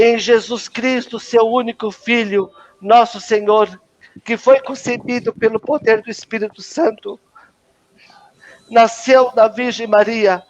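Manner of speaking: creed recited through welling tears; overcome with emotion. Real, not acted. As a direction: keep praying as the voice catches. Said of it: "aí eu vou me emocionar". (credo com a voz embargada)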